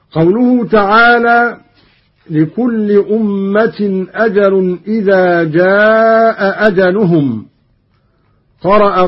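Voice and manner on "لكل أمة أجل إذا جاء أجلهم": measured tajweed chant, slow; Quran recitation. Acted. Teacher reciting the verse for students, measured chant.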